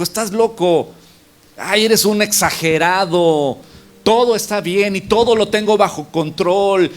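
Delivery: proud and arrogant. Retold or imitated. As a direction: play someone too proud to be helped. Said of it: "todo orgulloso y soberbio".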